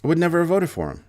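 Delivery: high, put-on whiny voter voice; mocking voter voice. Mocking voter echoing the line.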